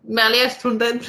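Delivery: Merely astounded with a self-mocking put-on English accent, final d sounded; hammed-up English accent on Merely astounded. Shown as a demonstration. Showing off her superb accent to the co-host, mock English accent. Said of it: "avec mon superbe accent".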